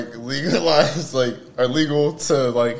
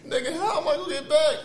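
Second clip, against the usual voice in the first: laughing worry; 12 semitones higher, faster than usual. Retold or imitated. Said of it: "I was like".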